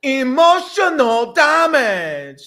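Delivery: slow, high drawn-out meme voice; mock Asian accent. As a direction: stretch it out like the meme. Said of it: "can't do it".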